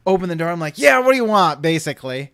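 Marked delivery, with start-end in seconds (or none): 0.8-1.6 loud, high, irritated demand; pissed off. Retold or imitated. Man opening the door to persistent knockers, pissed off. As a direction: throw it out as an annoyed challenge. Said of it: "I'm just pissed".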